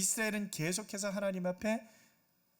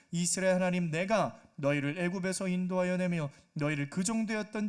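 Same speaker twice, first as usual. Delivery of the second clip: solemn, louder scripture reading; 4 dB louder than usual. Acted. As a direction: proclaim God's words from the text. Reads scripture aloud. (성경 본문을 낭독하는 엄숙한 목소리)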